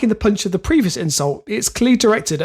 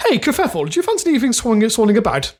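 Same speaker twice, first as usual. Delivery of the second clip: higher-pitched, badly faked upper-class voice; upper-class accent; 4 semitones higher, faster than usual. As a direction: hail a chum in a mock upper-class accent. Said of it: "an upper class name".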